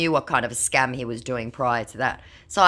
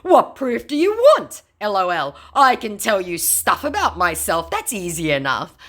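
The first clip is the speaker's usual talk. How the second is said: mock scammer; 6 semitones higher, 5 dB louder than usual. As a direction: whine it out like the scammer. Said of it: "my scammer said".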